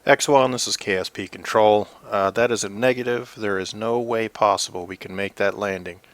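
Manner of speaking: loud commanding radio voice; firm orders over the radio; stern mission control. Pretend. Mission control refuses landing.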